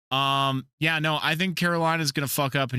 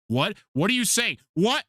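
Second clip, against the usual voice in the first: high-pitched, incredulous questions; retold disbelief; 8 semitones higher than usual. Fan re-enacting his shock at the trade news, incredulous. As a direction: re-enact being stunned by what you just read.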